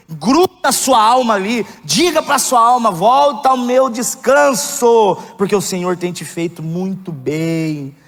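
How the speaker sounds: preaching. Acted. Pastor urges the church to rest in scripture, preaching fervently. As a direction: lean into the scripture with full conviction.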